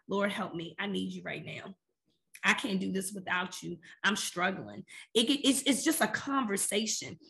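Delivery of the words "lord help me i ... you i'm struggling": quiet plea. Shown as a demonstration. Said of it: "Prayer can just be as simple as".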